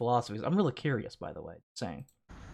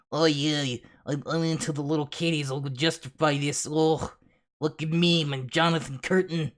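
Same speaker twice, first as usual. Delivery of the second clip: mocking impersonation; 3 semitones higher than usual. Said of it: "but his point is".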